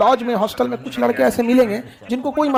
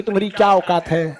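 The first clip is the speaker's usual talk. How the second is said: a lightly sweet, lower insult; mock sweet insult; 5 semitones lower than usual. Teacher showing arrogance said lovingly, mock sweet. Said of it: "ऐसे प्यार से बोलेंगे".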